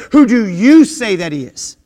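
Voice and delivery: "you" leaned on in "who do you say that he is"; stress on you. Shown as a demonstration. Preacher pressing the question "you" on listeners, stressed. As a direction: press the word "you" so it lands personally. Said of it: "the emphasis is on the word ye".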